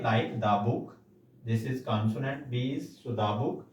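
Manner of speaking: "the book" with a short "duh". Shown as a demonstration. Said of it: "तो हम इसे दा पढ़ते हैं".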